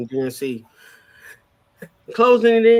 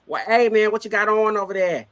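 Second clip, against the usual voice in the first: put-on a playful, slightly higher take on a Boston accent; mock Boston accent; 5 semitones higher than usual. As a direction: tease the Boston accent like a friend would. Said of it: "you know how they talk in Boston".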